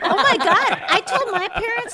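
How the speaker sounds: high, laughing through the words. Real, not acted. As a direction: burst out laughing while talking. Laughing through funny story.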